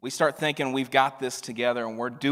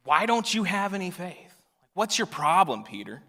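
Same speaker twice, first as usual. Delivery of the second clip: exasperated rebuke; 5 semitones higher than usual. Retold or imitated. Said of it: "read it with the countenance of".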